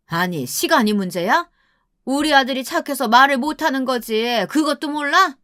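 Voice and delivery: indignant rhetorical questions from a mother-in-law; scolding mother-in-law. Acted. Mother-in-law snaps back at daughter-in-law.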